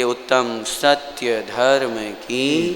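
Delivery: very slow, low, drawn-out call; leading an acclamation. Shown as a demonstration. Preacher asks congregation to answer jai, slow chanted call. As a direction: stretch each word to cue the crowd's reply.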